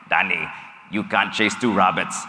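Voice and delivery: put-on German accent. A German friend gives the speaker blunt advice, in a light German accent. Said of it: "I'm probably gonna butcher this German accent".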